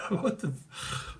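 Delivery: whisper, slow; whispered shock. Real, not acted. Reader shocked at her own joke, whispering. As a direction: breathe it in disbelief. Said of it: "shocked at own words".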